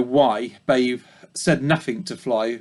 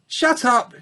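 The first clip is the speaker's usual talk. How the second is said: high sharp snap at the sheep; Fly snapping at the ewe; barked; 10 semitones higher than usual. Acted. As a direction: bark it at the noisy neighbour. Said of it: "She barked".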